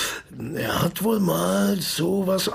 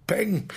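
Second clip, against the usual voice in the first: mock gunshot; 6 semitones higher than usual. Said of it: "Das war Tells Geschoss".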